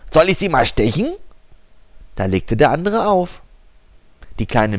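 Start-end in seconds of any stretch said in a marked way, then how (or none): 0.1-1.2 tiny mosquito voice. Acted. Mosquito threatens caller.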